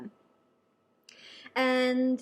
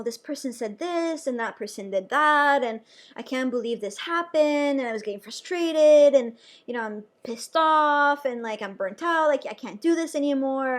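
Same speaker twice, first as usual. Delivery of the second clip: retold complaining; 4 dB louder than usual. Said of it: "complaining to her about".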